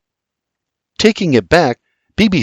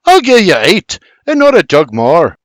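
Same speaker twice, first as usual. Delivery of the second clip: louder and much higher, firm counteroffer; raised haggling voice; 6 semitones higher, 5 dB louder than usual. A narrator's reading. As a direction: push back hard on the price.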